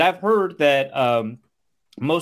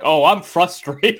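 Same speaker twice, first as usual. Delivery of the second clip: slow, louder, drawn-out sulky admission; mock admission; 3 semitones higher, 5 dB louder, slower than usual. Friend imitating Kirk admitting frustration, slow and sulky. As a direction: lean into it like a sulking kid. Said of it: "And Kirk was like".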